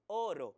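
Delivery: "Oro" with a lengthened first o; "Oro" said as "o-oro", the vowels merged; ugly doubled o. Shown as a demonstration. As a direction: run two o sounds together at the start of "Oro". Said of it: "se estaría feo la pronunciación".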